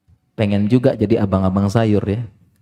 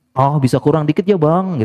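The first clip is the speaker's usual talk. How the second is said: coaxing bargain; 4 semitones higher than usual. Retold or imitated. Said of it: "gitu ya".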